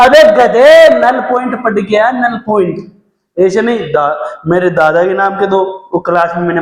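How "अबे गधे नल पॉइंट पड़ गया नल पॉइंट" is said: mock student. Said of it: "ये वाला बोलेंगे".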